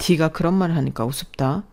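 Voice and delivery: ordinary delivery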